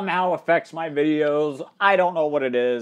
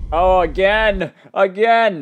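mock excitement; 5 semitones higher, 4 dB louder, slower than usual. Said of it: "Nah, just kidding".

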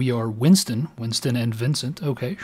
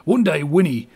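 ONE hit louder with a falling tune, mock British; British accent; 4 semitones higher, 5 dB louder than usual. Vincent promising Winnie in a British accent. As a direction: stress "One" in a hopeful British voice. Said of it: "the accent is just gonna change".

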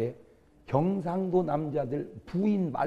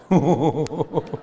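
laugh; 5 dB louder than usual. Real, not acted. Preacher laughs at his own joke.

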